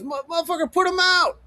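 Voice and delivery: rising to a shout, daring them; calling their bluff with a shout; defiant shout. Real, not acted. Daring haters to release recordings.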